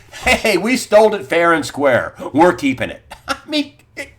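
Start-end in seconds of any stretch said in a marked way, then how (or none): 0.1-3.0 louder, laughing mock banker boast; smug mock boast. Host mimicking bank bosses, louder smug mock gloat. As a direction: play the bank gloating over its loot. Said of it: "they feel pretty pompous".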